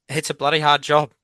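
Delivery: real emotion welling up, pushing through; host moved while thanking a guest; getting emotional. Real, not acted. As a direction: let the feeling rise as you push on. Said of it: "I'm actually gonna get emotional now".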